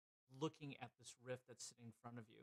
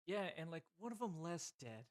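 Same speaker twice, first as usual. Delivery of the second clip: Voldo's interjection; 5 semitones higher, 5 dB louder than usual. Acted. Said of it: "just goes".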